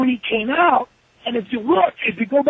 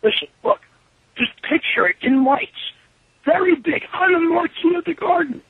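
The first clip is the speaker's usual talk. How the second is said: mock grand announcement; 6 semitones higher than usual. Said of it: "I'm like".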